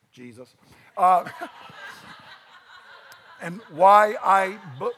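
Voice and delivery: quick breathy laugh breaking into the words; laughing at himself. Real, not acted. Preacher laughing while teasing about an album, real laughter. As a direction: laugh at your own joke. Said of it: "'cause I'm right".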